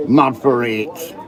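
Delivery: slow, drawn-out Mad for it like a famous band; a band's catchphrase. Retold or imitated. Quoting a band to the crowd, slow and drawn out. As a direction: stretch out Mad for it like a Manc rock star. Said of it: "As the band says".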